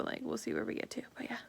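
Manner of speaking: ordinary talk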